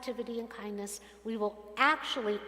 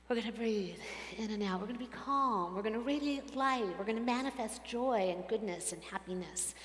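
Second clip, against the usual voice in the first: calm; 4 dB quieter than usual. Shown as a demonstration. Models calming down after angry outburst.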